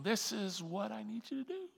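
lightly voiced God calling his children; tender divine direction, then a firm point. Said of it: "like a laser beam".

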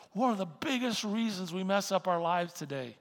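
preacher hammering the point again. Shown as a demonstration. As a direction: drive the repeat home harder. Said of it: "repeated for emphasis".

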